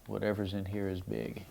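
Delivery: hushed, breathless wonder; a soft retold whisper of amazement; awed whisper. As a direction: whisper it as if holding something precious. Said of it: "and I was like".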